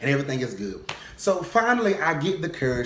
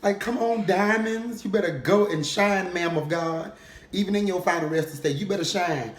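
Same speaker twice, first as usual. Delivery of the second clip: gushing cousin; 4 semitones higher than usual. Retold or imitated. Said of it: "Mia's just looking like".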